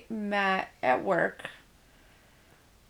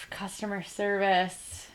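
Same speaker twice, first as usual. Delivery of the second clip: whispering; 6 dB quieter than usual. Real, not acted. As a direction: sigh it out under your breath. Weary sigh about the job.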